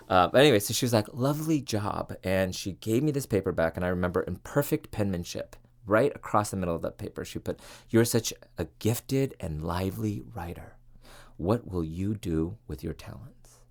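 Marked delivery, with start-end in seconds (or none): 1.1-2.2 put-on light British accent, a bit higher, pleased. Imitating her British professor praising her paper, light British accent. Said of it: "I'm gonna do a lot of British accents". 7.9-13.6 put-on gentle British accent, reading out a teacher's written note. Professor's note on her paper, read in a light British accent. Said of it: "I'm gonna do a lot of British accents".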